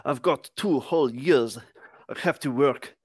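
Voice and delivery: wobbly imitation French accent; mock French accent. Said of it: "I cannot do the French accent".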